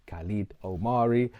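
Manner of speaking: his name rolled in a Spanish accent; a dropped, Spanish-accented self-introduction. Real, not acted. Vlogger introducing himself in Spanish, with a Spanish accent. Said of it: "the accent pops up when I speak Espanol".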